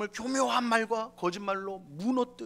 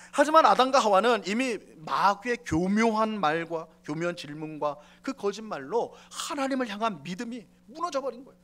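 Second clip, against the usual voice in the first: ordinary talk, nothing marked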